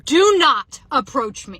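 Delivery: loud, slow, emphatic warning; drawn-out loud command, acted out; retold yell. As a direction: re-enact yelling someone off, word by word. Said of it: "immediately start screaming".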